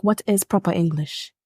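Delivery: a hint of the stern English teacher; imitating teacher. Teacher correcting the class, mildly stern. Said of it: "he was like".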